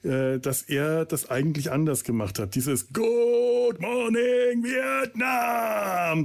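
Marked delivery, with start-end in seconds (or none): 2.9-6.2 very high, very slow shouted greeting; loud drawn-out shout. Retold or imitated. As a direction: belt it out to wake everyone. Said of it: "jedes Mal so richtig laut geschrien hat".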